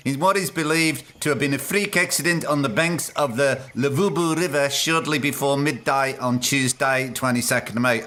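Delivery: put-on news report in a failed South African accent; botched South African accent. Podcaster trying to read a hunter's death report, botched South African accent. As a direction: attempt South African, not quite getting it. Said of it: "I can't do this accent".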